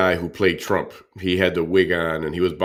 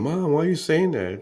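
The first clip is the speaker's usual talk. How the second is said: put-on high, pleading child's voice; mock daughter; 11 semitones higher than usual. Imitating the daughter begging her mom to stop, higher pleading voice. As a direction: plead like an embarrassed kid. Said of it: "her daughter back here saying".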